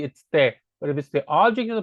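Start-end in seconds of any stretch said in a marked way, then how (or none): 0.0-0.5 correcting the pronoun, te stressed. Shown as a demonstration. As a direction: land firmly on te.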